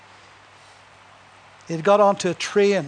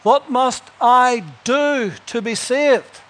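slow, pleading seeker; a hint of an anxious seeker; earnest question; 5 semitones higher, 4 dB louder, slower than usual. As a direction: ask it like a desperate man. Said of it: "a man one time asked".

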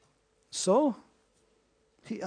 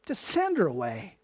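dismissive. Retold or imitated. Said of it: "that's what their attitude".

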